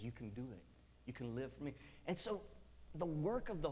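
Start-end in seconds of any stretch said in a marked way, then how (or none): 0.0-1.7 soft, low encouragement; gentle inner voice. Retold or imitated. Holy Spirit encouraging a fearful teen, soft and low. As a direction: murmur it like a nudge. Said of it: "the Holy Spirit comes inside of you and says".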